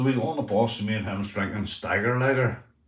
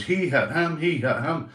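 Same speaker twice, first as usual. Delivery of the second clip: slightly raised, higher mock alarm; imitated alarmed report; 5 semitones higher than usual. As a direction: mimic a mate spreading the news. Mate tells those outside.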